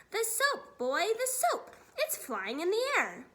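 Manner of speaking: high, loud, agitated cry; alarmed exclamation. A narrator's reading. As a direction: exclaim in amazement, urgently. Father alarmed at floating soap.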